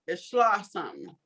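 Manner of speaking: ordinary talk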